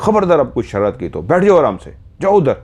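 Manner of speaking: angry mother sending her daughters away; angry order. Retold or imitated. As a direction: send the girls off in a temper. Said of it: "मुझे एकदम से गुस्सा आ गया".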